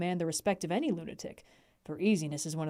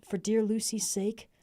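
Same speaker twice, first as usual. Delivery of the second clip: tender plea, slower; 3 semitones higher than usual. Acted. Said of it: "You will let me be like a brother".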